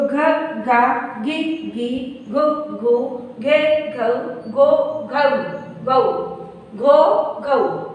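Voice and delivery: slow, syllable by syllable drill; barakhadi recitation. Shown as a demonstration. Teacher reciting the gh syllables for students. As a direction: say each gh syllable apart and clearly. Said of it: "अब इसके बाद आता है घ".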